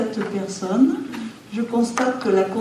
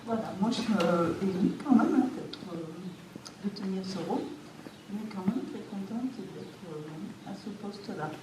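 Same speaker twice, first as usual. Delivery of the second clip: muffled behind a face mask; speaking through a face mask; 7 dB quieter than usual. Real, not acted. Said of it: "parler avec le masque".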